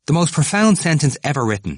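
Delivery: high, loud enthusiasm; enthusiastic. A narrator's reading. Temple sharing his favourite sentence, enthusiastic. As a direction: proclaim it with great relish. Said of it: "Temple said with enthusiasm".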